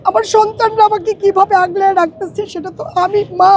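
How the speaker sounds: tearful, voice breaking through tears; crying while she speaks; snotty crying. Real, not acted. Widow grieving her husband's death.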